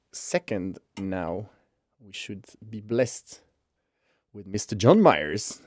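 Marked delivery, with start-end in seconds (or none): 4.5-5.6 lilting host introduction, swelling on the name; mock-grand guest billing; showy name announcement. Real, not acted. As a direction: swoop through the guest's name with relish. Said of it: "why do I say it like that".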